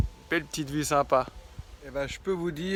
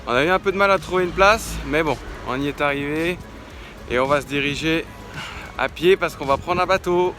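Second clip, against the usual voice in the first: excited; 4 dB louder than usual. Real, not acted. Excited morning greeting.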